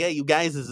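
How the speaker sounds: "guyses" said as guy-ziz, a doubled plural; Wisconsin dialect greeting. Shown as a demonstration. Wisconsinite showing work talk, "guyses" with doubled plural ending. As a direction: call "Hey, you guyses" with the extra -iz syllable. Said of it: "I don't know if I say that".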